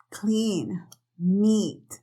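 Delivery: Clean, meet with a long smiling ee. Shown as a demonstration. Teacher models the long I. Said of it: "Y es largo".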